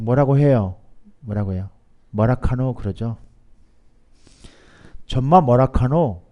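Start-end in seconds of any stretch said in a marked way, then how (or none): 2.1-2.7 lightly voiced Gyeongsang dialect. Shown as a demonstration. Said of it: "경상도 사투리는 잘". 5.1-6.2 slow, drawn-out Gyeongsang question; Gyeongsang dialect. Acted. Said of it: "경상도 사투리로 말하고 있는 거예요".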